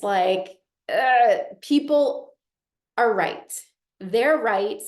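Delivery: ordinary talk, nothing marked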